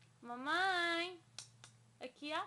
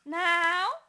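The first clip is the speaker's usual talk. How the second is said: a sudden loud no; firm loud warning no; sharp no; 2 semitones higher, 15 dB louder than usual. Real, not acted. Baby putting thing in mouth.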